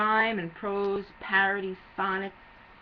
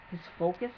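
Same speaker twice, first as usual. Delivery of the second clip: softer, questioning echo with a rise; inquiring; 3 semitones lower, 5 dB quieter than usual. A narrator's reading. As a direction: ask it quietly, rising at the end. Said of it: "I inquired".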